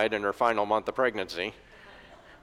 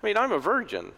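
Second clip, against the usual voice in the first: bewildered Mary; 8 semitones higher than usual. Retold or imitated. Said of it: "Mary's like".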